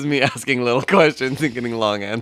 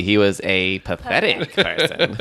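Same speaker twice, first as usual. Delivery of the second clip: laughing; 4 semitones lower than usual. Real, not acted. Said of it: "laughs at own misread".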